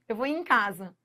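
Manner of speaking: "em" said as a nasal "in", unstressed and weak. Shown as a demonstration. Teacher showing students how "em" turns into "in". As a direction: let "em" collapse into a quick nasal "in". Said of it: "O em vira in".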